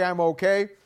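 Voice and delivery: lightly voiced, reassuring yourself; a hint of smug comfort; self-assured. Churchgoer telling himself all is fine, mildly self-assured. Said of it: "you walk around saying".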